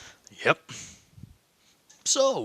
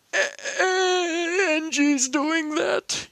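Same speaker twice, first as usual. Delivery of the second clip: shocked; 13 semitones higher, slower than usual. Acted. Shocked at sister's videos.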